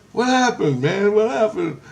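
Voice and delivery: high-pitched urgent asking; retold alarmed question. Retelling his panicked question to kid.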